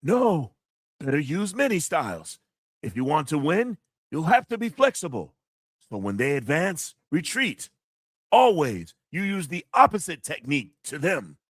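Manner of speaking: a hint of a wise sifu giving advice; martial arts master voice. Shown as a demonstration. Streamer reads a kung fu movie quote in the master's voice. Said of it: "I try to do the voice too".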